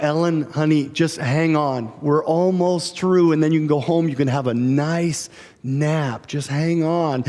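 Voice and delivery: soothing mom. Retold or imitated. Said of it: "the mom's like".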